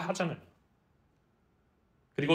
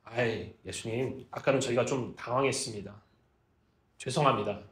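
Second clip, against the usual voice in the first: lower, softer, sheepish excuse; sheepish apology; 5 semitones lower, 5 dB quieter than usual. Acted. Disciples apologizing to Jesus after panicking, sheepish. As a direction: mumble a bashful, acted apology. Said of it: "머리를 좀 극적이면서".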